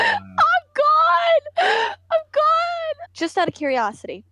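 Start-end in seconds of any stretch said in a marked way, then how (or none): 0.0-3.1 high shocked shout. Real, not acted. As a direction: yell it out in disbelief.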